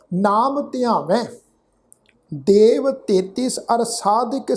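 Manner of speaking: measured verse reading, phrase by phrase; deliberate teaching recitation; scripture recitation. Shown as a demonstration. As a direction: recite the sacred verse with a pause after each phrase. Recites the verse being taught.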